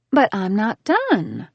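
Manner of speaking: slow, sugary mock complaint; drawn-out sweet whine. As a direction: sweeten it to get your way. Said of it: "I complained, using my sweetest voice".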